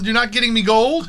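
playful mock leprechaun voice. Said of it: "He talked like the Leprechaun".

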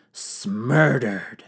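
word broken by a laugh; can't keep a straight face on the joke; laughing at own pun. Real, not acted. Host cracking up at his own pun, laughing.

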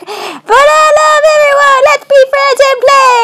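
high, sweet puppy voice; high cheerful dog voice full of love; happy puppy voice. Retold or imitated. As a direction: voice the goofy friendly puppy, up high. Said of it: "Dewey's like".

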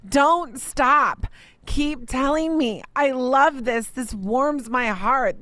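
gently voiced tender God. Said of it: "he is saying".

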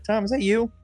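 surprised recognition. Pretend. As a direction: pretend to recognise him in a dark alley. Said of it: "I'd be like".

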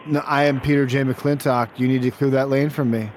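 lightly voiced boastful bowling champ; full-voiced champion demanding service; self-announced bowling champion. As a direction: announce yourself like a washed-up champion bowler.

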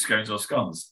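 "scones" like stones, then "scones" like dons; two rival pronunciations. Shown as a demonstration. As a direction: contrast long-O "scones" with short-O "scones". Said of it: "you know, stone".

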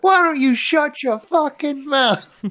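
slow, high hammed-up New York tough guy; mock New York accent. Podcast host mimics a rude New York alien, hammed-up accent. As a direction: sneer it like a cartoon New Yorker. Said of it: "That was my attempt at a New York accent".

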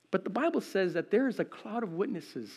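ordinary delivery

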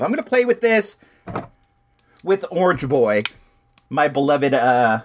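winded after yelling, out of breath. Real, not acted. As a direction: talk while catching breath. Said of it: "I'm out of breath right now".

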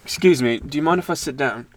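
polite request in badly faked British; fake British accent. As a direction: put on a light, unconvincing British accent. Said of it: "talking in a fake British accent".

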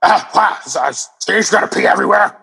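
put-on voice of a scandalized passerby; hammed-up disapproval; mock scolding onlooker. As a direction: play an appalled busybody, pitched slightly up.

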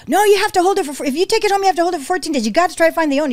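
emphatic imitation of a rescue veteran; retold correction. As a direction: lay down the rules to a newcomer. Rescue ladies correcting the newcomer.

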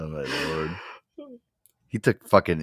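ordinary talk

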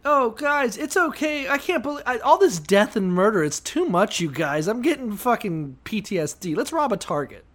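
high, whiny fake panic; mock panicked Israelite. Comedian mocking Israelites scared after thirty-six deaths, high and whiny. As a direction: squeak it out like a coward overwhelmed by death.

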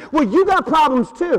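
lightly voiced deflecting retort; mock defensive retort. Confronted believer deflecting onto the preacher, mock defensive. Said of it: "that's the natural diversion".

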